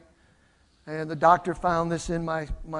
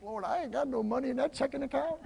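hushed, higher-pitched comic plea; private worried aside; 5 semitones higher, 10 dB quieter than usual. Retold or imitated. Pastor privately to the Lord about his checking account, worried aside. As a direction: squeeze out a small secret prayer for laughs.

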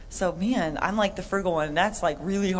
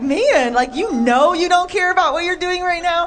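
mock exasperated; 9 semitones higher, 7 dB louder than usual. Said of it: "And I'm like".

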